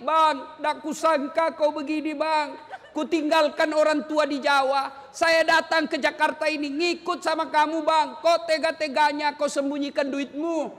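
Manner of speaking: mild mock wife's complaint to Bang; a hint of a hurt wife scolding; wife scolding husband. Preacher voicing a wife complaining to her husband, mildly hurt. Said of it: "Boleh marah seperti itu".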